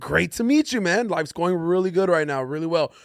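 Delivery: chirpy polite phone-call voice; white customer service voice. Retold or imitated. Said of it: "It's only when he's calling, like, State Farm".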